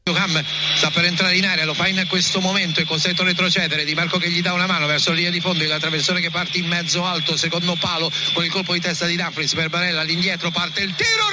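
breathless italian goal commentary. Real, not acted. Radio play-by-play building to goal.

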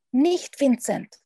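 langsamer, hoher Warnruf; Ruf. A narrator's reading. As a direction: ruf ihn erschrocken zurück. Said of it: "ruft Polly". (warnender Ruf)

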